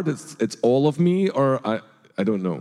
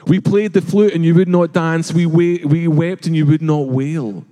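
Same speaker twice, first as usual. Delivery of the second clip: raised, rhythmic recitation; poem quoted loudly; 5 semitones higher, 5 dB louder than usual. Acted. Jesus reciting the poem to the crowd, declaimed loudly. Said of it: "he quotes a little poem".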